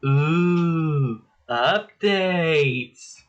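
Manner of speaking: spooky drawn-out ghostly ooh. Pretend. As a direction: moan it like a ghost. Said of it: "making this sound like a ghost".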